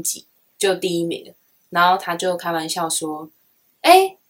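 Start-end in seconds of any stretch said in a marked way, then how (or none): 3.8-4.2 老头声音. Retold or imitated. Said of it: "讲话有点北蓝北蓝的一个老头".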